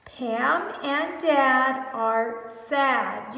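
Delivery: Pam and Dad are sad said very slowly; slow model reading. Shown as a demonstration. Teacher modelling the sentence slowly for children. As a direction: read each word slowly for the kids. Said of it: "You read it".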